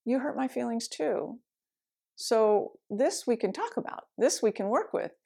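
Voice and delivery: a mild hurt voice. Retold or imitated. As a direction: say it gently, hurt not angry. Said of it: "is really different than".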